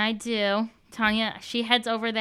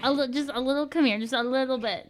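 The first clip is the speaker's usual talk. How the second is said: coaxing; 4 semitones higher than usual. Acted. Coaxing the fish closer.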